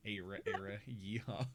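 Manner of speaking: quiet southern country voice; southern Ara Ara. Shown as a demonstration. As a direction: toss it off in a deep southern accent.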